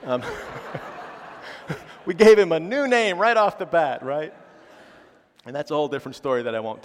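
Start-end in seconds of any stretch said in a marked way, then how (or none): 0.3-2.0 laugh. Real, not acted. Laughs at joke about son's name.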